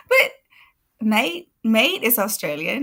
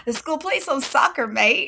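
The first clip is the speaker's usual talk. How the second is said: mock British accent; 6 semitones higher, 4 dB louder than usual. Mocking British mate phrasing.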